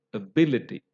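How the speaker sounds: ability with the BI given prominence; stress on second syllable. Shown as a demonstration. Teacher models the stress mark in ability, stress on BI. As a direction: lean on the BI in ability. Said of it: "that B is given prominence".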